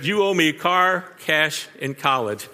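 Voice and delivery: sing-song imitation of a demanding teenager; mock entitled demand. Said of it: "If not stated, implied".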